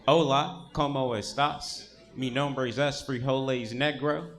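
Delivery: bad Spanish. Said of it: "That's a Spanish you learned in Baton Rouge".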